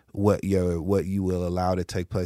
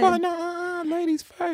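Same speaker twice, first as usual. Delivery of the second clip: mock gentleman. Polite yielding to cohost.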